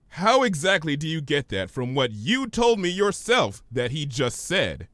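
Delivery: patient but weary question; Twilight's voice. Acted.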